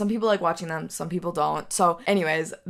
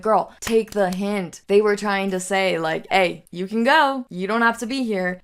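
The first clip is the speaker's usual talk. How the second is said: sassy aside; 3 semitones higher, 4 dB louder than usual. Pretend. Sassy commentary on hints.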